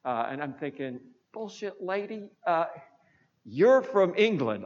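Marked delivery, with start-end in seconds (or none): 1.3-4.6 indignant retort. Retold or imitated. Retorting to reporter in his head.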